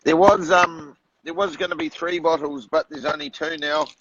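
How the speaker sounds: words running together after tequila; slurred speech. Real, not acted. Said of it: "He's slurring".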